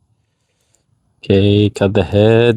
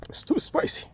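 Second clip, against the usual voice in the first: whisper; 14 dB quieter than usual. Real, not acted. Burning mouth from hot sauce.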